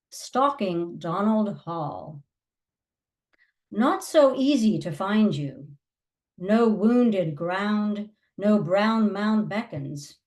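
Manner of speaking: measured poem recital with weighted pauses; poetry reading. Acted. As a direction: read it line by line, letting each image rest. Reads second poem aloud.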